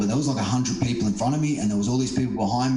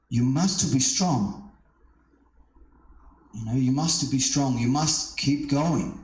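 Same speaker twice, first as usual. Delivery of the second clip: put-on slow, gentle voice of the young woman, lightly French; soft French girl; 3 semitones higher, slower than usual. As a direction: urge him on slowly and softly, lightly accented. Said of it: "that wasn't her accent at all".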